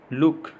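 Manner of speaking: लुक with a short उ vowel. Shown as a demonstration. Teacher showing double O said short, brief vowel in लुक. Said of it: "ऊ, ह्रस्व उच्चारण".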